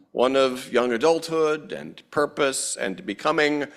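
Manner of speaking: loud, ceremonial welcome address; formal speech. Acted. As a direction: address the gathering with gravity.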